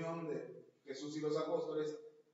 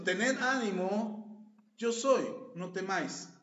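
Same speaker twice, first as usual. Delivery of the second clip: solemn reading; 3 semitones higher, 6 dB louder, much slower than usual. Acted. Reading Jesus' words aloud.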